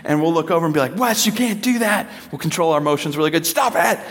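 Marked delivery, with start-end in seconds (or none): 1.0-2.1 put-on higher, firmly scolding the kid; a hint of a stern parent; mock stern parent. 3.5-4.0 put-on higher, firmly scolding the kid; a hint of a stern parent; mock stern parent. Parent telling child to stop.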